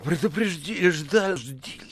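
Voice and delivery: panicked, breathless stumbling; gasping. A narrator's reading. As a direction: break the word apart, short of breath. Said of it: "задыхаясь".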